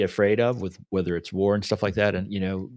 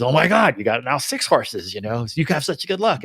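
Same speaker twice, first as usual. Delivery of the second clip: mock-excited gushing, higher and louder; hammed-up neighbor gasping at six horses; 5 semitones higher, 4 dB louder than usual. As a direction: play the envious neighbor gushing over the luck. Neighbor voiced in retold parable.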